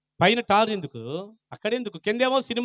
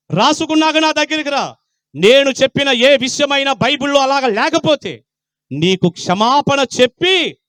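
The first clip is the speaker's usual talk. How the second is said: loud, raised preaching voice; forceful preaching; 6 semitones higher, 7 dB louder, slower than usual. Real, not acted. Preacher challenging the congregation to check the Bible, forceful. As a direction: throw down the challenge at full voice.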